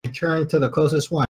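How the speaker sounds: normal talking voice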